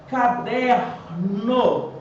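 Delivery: caderno very slowly, syllable by syllable; stress on DER. Shown as a demonstration. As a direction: stretch caderno out, ca-DER-no, weight on DER. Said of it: "o der é a sílaba tônica".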